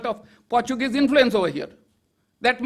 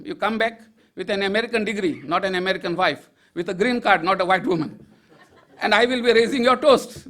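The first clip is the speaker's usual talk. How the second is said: teasing advice, laughing; 3 semitones lower than usual. Retold or imitated. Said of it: "again I told him".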